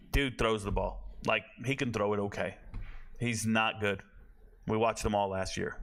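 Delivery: low, subdued, underwhelmed delivery; unexcited. Real, not acted. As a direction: say it with the excitement drained out. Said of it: "don't hear the excitement in my voice".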